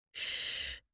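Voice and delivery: soft breathless shush; whispered shush. Acted. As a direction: hush her in a whisper. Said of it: "I whispered".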